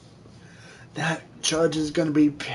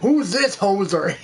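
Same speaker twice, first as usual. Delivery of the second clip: Canadian judge; 3 semitones higher, 3 dB louder than usual. Acted. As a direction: savor it in a mock Canadian accent. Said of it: "the game with the Canadian judge".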